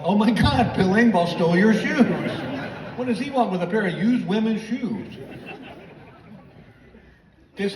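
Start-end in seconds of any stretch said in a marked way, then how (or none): 0.0-5.2 friends' amazed reaction. Retold or imitated. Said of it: "and they all went".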